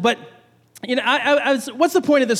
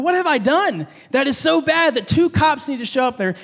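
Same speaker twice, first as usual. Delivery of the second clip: higher-pitched, mock-alarmed question; a little terrified; 4 semitones higher than usual. Rider seeing a second cop arrive, retold mild terror. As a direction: retell it with mild rising panic. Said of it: "a little terrified".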